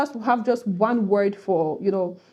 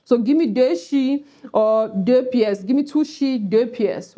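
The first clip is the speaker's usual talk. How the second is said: Cameroonian pidgin. Shown as a demonstration. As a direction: ask for money Cameroon style. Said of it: "we use the French language".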